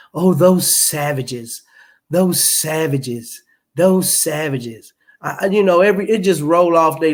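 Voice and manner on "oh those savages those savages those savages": slow, drawn-out mimicked contempt; mock disdain. Mimicking colonizers calling everyone else savages, slow mock disdain. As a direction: draw each phrase out in mock disdain.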